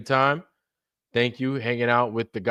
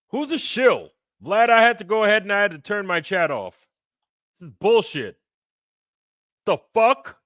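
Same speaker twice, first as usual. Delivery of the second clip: much higher, louder indignant voice; impersonation; 9 semitones higher, 4 dB louder than usual. Retold or imitated. Host doing an impression for the chat, outraged and high. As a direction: play the outraged guest. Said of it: "come for the impersonations".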